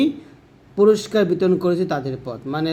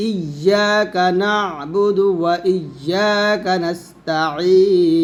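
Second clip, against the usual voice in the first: very slow, drawn-out chant; measured tajweed recitation; Quran recitation; much slower than usual. Shown as a demonstration. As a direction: stretch নাস্তাঈন long and full. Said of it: "তারপর দেখুন".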